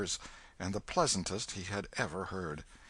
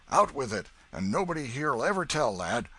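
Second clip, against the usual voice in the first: put-on old man voice; 4 semitones higher, 5 dB louder than usual.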